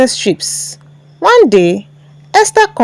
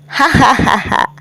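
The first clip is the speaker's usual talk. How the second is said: a light, voiced mock laugh; group laughter. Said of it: "They all laughed".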